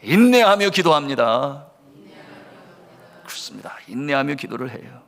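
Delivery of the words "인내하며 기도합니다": firm lead for a congregation to join; leading unison recitation. Real, not acted. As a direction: lead everyone in saying it together. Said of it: "우리 한 음성으로 하겠습니다". (다 함께 따라 하도록 이끄는 선창)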